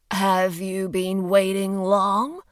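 slow, level, robotic. Acted. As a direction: say it like a machine. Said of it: "hearing his own voice as though it belonged to a robot".

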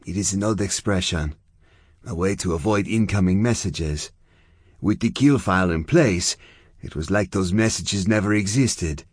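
lightly voiced Zona, explaining a term; Zona, fierce, now explaining. Zona telling Chia what a kill file is, informative.

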